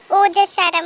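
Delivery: loud, fed-up brush-off; annoyed shout. Acted. Tae tells pushy Yunjun at the party to shut up, loudly annoyed.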